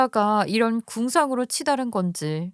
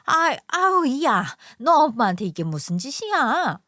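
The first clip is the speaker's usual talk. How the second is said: pained outcry; 3 semitones higher than usual. Acted. Mother-in-law crying out as her son twists her arm. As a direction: cry out as your arm is twisted.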